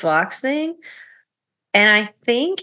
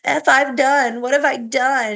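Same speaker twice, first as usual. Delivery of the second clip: exasperated husband voice; higher, rushed, exasperated; high exasperated mimic; 6 semitones higher than usual.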